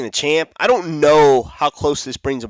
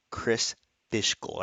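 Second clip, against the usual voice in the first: Chris Fishgold slow and careful, a bit softer; said very slowly; 2 semitones lower, 8 dB quieter, slower than usual. Shown as a demonstration. Host showing viewers how he must read the name, slowly. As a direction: ease through Chris Fishgold one syllable at a time. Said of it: "I have to say it very slowly".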